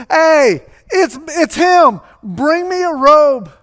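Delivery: high, loud, jubilant father calling out; excited acted hollering, drawn out; yelling to employees. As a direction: shout orders across the yard, elated. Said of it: "yells at the employees".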